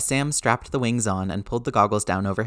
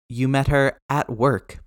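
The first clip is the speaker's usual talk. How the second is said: higher, slow dawning surprise; surprised realization; 4 semitones higher than usual. Acted. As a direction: let it dawn on you slowly. Peter realizing, higher slower.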